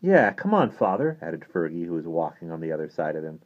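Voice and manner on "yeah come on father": high, loud urging; eager, pitched-up prodding; pleading boy. Acted. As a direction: coax impatiently in a boyish pitch. Boy urges priest to explain.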